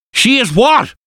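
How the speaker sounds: very high, outraged cry of disbelief; shouted. A narrator's reading. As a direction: explode in shocked outrage. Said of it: "Arthur shouted".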